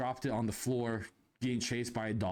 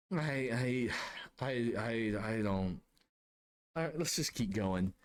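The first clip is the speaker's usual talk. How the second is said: stammer, then give up on explaining; stunned stammer; 2 semitones lower than usual. Retold or imitated. Salesman answering his buddy after the shock, stunned.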